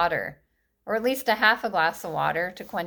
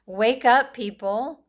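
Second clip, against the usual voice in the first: loud wake-up call; 3 semitones higher, 4 dB louder, slower than usual. Real, not acted. Ranting to viewers, a loud wake-up call. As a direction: Wake up punched out loud to rouse them.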